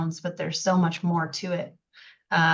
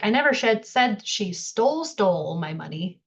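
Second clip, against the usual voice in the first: "said" and "stole" repeated for stress; doubled words. Shown as a demonstration. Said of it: "we double up words".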